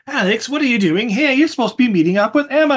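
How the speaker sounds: high-pitched put-on buddy voice; excitable buddy. Buddy walking in on Alex at work, excitable. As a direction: pitch it way up as the pestering friend.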